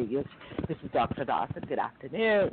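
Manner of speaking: measured, businesslike self-introduction; formal phone greeting. Retold or imitated. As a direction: re-enact a proper professional phone voice. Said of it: "I brought the tone down".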